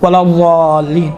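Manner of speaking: "ولا الضالین" with a heavy ض and a lengthened ā; demonstrating ض. Shown as a demonstration. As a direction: recite "ولا الضالین", holding the long vowel. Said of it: "دال جیسا ادا ہو رہا ہے".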